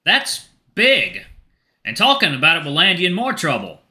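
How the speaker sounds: light mentor voice, concerned; Bucky concerned. Acted. Bucky reacts to news.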